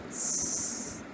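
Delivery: long hissing wind sound; imitated whistling wind. Shown as a demonstration. Teacher shows pupils the wind's sound, whistling hiss. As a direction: make a drawn-out sibilant rush of wind. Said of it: "there is some sound like".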